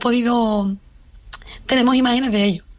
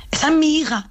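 higher, insistent mock protest; imitated outrage, pitched up; retold indignant claim; 5 semitones higher than usual. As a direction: press the point like an upset mother. Sister confronting man photographing niece.

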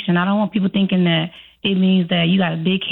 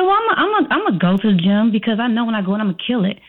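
overconfident; faster than usual. Retold or imitated. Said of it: "you come in there overconfident".

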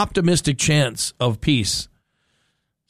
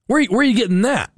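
incredulous; 6 semitones higher, faster than usual. Real, not acted. Host challenges Iran's demand.

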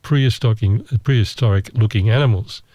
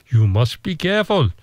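put-on a light Indonesian accent, pitched up a little; a hint of an Indonesian guide's warning; mock Indonesian accent; 4 semitones higher than usual. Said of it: "my Indonesian accent's very good".

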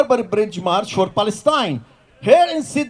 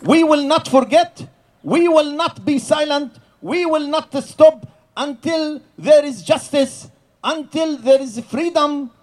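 rally pledge; 3 semitones higher than usual. Real, not acted. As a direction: hurl each promise out to the square. Leading rally pledge to crowd.

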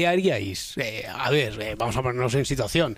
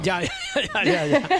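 laughing; 11 semitones higher than usual. Real, not acted.

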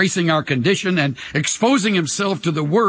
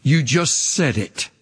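low, slow mocking voice of doubt; the enemy taunting; 9 semitones lower, slower than usual. The enemy whispering doubt to a believer, low mock sneer. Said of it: "the enemy says".

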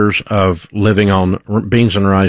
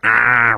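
drawn-out "ah" of frustration; worked-up halftime coach's "ah"; angry growl. Shown as a demonstration. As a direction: let out a long coach-style "aah". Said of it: "hear that anger in my voice".

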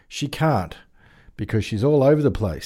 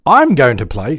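I'm said louder with a rise; stress on I'm; 2 semitones higher, 5 dB louder than usual. Real, not acted. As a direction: firmly stress I'm this time. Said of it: "I'm thinking of we as mean the Bogan moth".

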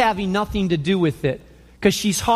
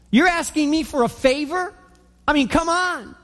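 sassy retort; 3 semitones higher than usual. Retold or imitated. Samaritan woman scoffs at Jesus with playful mock sass. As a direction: pitch climbing, mock indignant push-back. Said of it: "her hand on her hip and her head wagging".

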